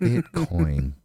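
"Bitcoin" said slowly, each syllable weighed; spelled-out Bitcoin. Shown as a demonstration. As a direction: drill "Bitcoin" in as a lesson. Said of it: "Remember these two syllables".

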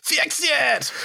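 put-on high, whining kid's demand; whiny child voice. Kid demanding that it be fixed, whiny child voice. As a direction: whine it like a small child. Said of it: "whiny child voice".

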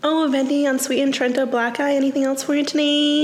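chirpy order confirmation; barista drive-thru voice. Shown as a demonstration. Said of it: "Do you want me to do it?".

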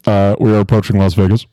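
captain's cabin announcement; pilot announcement. Pretend. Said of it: "a pilot on an airplane".

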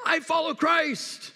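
a hint of a proud believer declaring; slow lifted mock claim; mock pious declaration. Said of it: "rightly declare".

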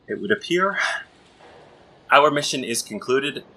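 lightly voiced weary prince; formal prince voice. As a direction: speak like a formal, battered royal. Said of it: "limp toward the others and say".

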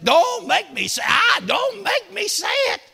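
preacher retelling his own words to God, building; building shout. Retold or imitated. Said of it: "I said".

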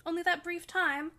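surprised, lifted query; exclaiming. A narrator's reading. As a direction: exclaim it, amazed at how short it was. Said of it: "she exclaimed".

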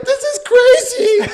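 squealed high through laughter, slow; laughing. Real, not acted. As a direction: laugh it out while running. Running for plane, laughing.

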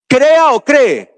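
"Crea o cree" slow, each verb weighed apart; contrast crea and cree. Shown as a demonstration. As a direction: slowly set "Crea" against "cree". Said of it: "están mal los que dicen crea".

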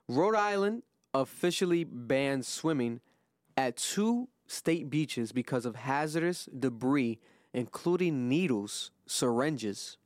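slow, measured news read; deliberate headline delivery. Real, not acted. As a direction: read the story out slowly, phrase by phrase. Reads out news story.

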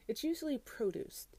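unvoiced confiding aside; whisper. Real, not acted. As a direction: whisper it like a secret.

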